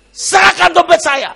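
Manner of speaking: high, loud order; imitated shouted demand. Pastor demanding his wallet from the pickpocket, imitated shout. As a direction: demand it at the top of the voice. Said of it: "dia langsung teriak".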